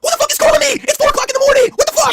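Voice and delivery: high, loud woken-up yell; mock Braun shout. Braun answers the late call, high loud yell. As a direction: bellow it like you just got woken. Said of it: "saying impression".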